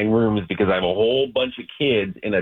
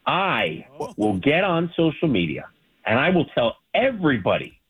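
entitled customer; 3 semitones higher than usual. Real, not acted. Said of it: "getting all angry like this".

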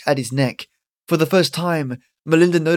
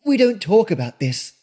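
stern Granny; 7 semitones higher than usual. Acted. Granny scolds Calvin.

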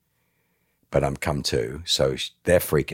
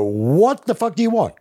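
high, loud furious snap; groggy angry outburst; 5 dB louder than usual. Retold or imitated. Dazed man coming to, snapping at his son, loud and angry. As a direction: bite back at whoever woke you.

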